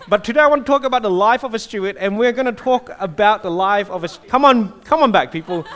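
cracking up mid-sentence; giggling while trying to restart; laughing. Real, not acted. Laughing as crowd reacts.

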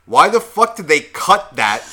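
exasperated retold complaint; indignant outburst. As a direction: retell it as a pissed-off demand. Retelling his angry reaction, being pissed.

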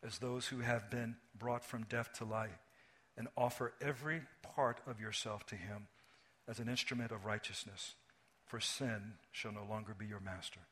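measured, fading scripture read. Acted. Pastor reading Romans to the congregation, measured and fading. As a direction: read the verses steadily, letting it fall away. Reads scripture passage aloud.

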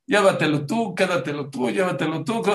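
lightly acted insistent back-and-forth; back-and-forth bickering. Couple argue over who takes the coat, insistent bickering. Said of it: "Empezaron a discutir al revés".

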